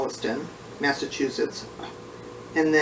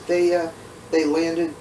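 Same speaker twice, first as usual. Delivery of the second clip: short of breath. Real, not acted. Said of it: "sorry, I'm a little short of breath today".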